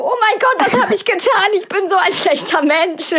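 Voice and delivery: hammed-up shock at what she did; mock horror. Retold remorse after kicking sister. (übertrieben entsetzt, viel höher)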